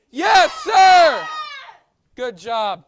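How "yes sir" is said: high, loud shout of yes sir. Shown as a demonstration. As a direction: snap it out like a soldier. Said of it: "really loud".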